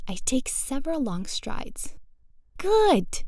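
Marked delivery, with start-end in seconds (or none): 2.6-3.2 high, loud cheer; pitched-up cry of encouragement. A narrator's reading. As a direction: burst out with delighted approval. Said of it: "she cheers".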